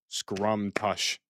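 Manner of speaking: SCRUM, TUSH, each syllable set apart; two separate syllables. Shown as a demonstration. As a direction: split "Scrum tush" into two clear beats. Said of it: "that's only two syllables".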